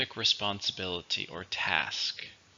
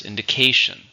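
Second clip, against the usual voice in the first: Indication, with the CA syllable louder; Indication, punched on CA; stress on third syllable; 7 dB louder than usual. Shown as a demonstration. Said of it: "Stress is on the third syllable".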